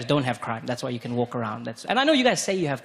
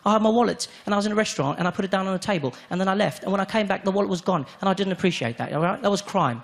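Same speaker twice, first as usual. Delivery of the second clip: British complainer; 4 semitones higher than usual. Retold or imitated. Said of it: "He said".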